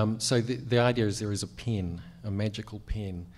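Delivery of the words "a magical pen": Kiwi vowel in pen; pen said like pin, Kiwi style; New Zealand accent. Real, not acted. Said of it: "I know it's my New Zealand accent".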